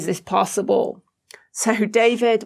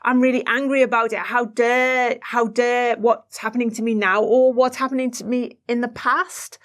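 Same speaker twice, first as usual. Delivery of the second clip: mild, acted indignation; angry inner child; 3 semitones higher than usual. Host voices the child angry at what happened, mildly indignant. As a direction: protest as the wronged child, without raising the volume. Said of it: "that's what's making the child angry".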